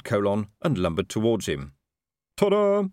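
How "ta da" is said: a high, loud, proud ta-da; proud fanfare. A narrator's reading. Colon proudly unveils his signal to All. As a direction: show off the trick with a flourish. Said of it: "said Colon proudly".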